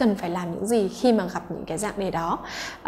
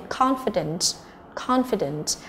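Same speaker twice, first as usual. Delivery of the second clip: "confident" stressed on CON; first-syllable stress; 5 dB quieter, slower than usual. Shown as a demonstration. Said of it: "là trọng âm thứ nhất".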